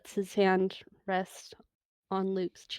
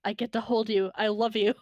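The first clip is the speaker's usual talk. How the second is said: giddy laughing; 5 dB louder, faster than usual. Retold or imitated. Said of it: "James in my head who is just going".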